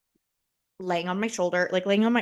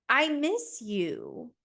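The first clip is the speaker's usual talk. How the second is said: slow, higher-pitched pining; mildly whiny lovesick plea; plaintive longing; 4 semitones higher, much slower than usual. Acted. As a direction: draw it out like a pleading complaint. Acted plea to absent boyfriend.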